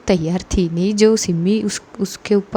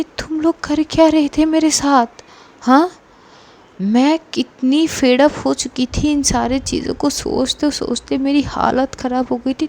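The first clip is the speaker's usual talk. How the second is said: hurt confrontation; 3 semitones higher than usual. Acted. Angry friend confronts the group.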